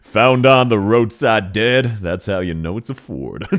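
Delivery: slow mock ad read; mock car commercial. Streamer doing a joke Ford commercial on request, announcer style. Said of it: "Can you do a Ford commercial?".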